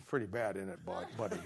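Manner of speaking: low, soft conspiratorial murmur; lightly voiced old man confiding; quiet grandpa aside.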